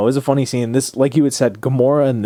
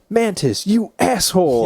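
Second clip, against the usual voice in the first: mock angry yell; 9 semitones higher, slower than usual. Drax turning on Mantis in space, hammed-up angry yell. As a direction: belt it out like a fake-furious friend.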